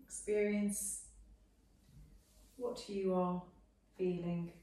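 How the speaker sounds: measured Yoga Nidra guidance with long pauses between phrases; guided meditation. Real, not acted. Teacher settling students into Shavasana, unhurried guided meditation. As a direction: guide them gently into rest, phrase by phrase.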